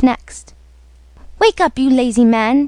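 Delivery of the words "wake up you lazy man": wife rousing her husband, a touch raised; mildly hammed-up wake-up call; mild mock yell. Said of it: "she cried to her husband".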